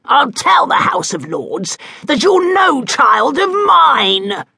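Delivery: slow, high, loud shout; enraged duke bellowing a threat at his son; bellowed. A narrator's reading. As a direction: bellow it across the room. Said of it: "the Duke bellowed".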